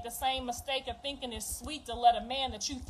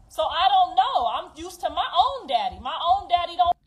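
bitter laugh; 4 semitones higher, 6 dB louder than usual. Real, not acted. Laughs while telling painful story.

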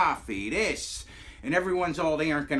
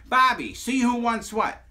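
loud, high mock call to Bobby; 9 semitones higher, 6 dB louder than usual. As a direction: call across the room, pitched up. Acts out himself calling to Bobby.

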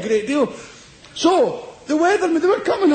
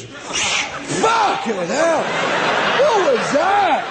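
mock Saint Paul shock; 4 semitones higher, much slower than usual. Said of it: "Saint Paul on the road".

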